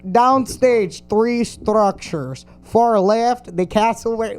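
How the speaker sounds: attempted Russian accent. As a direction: read it slowly in an amateur Russian accent. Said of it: "This is Russian".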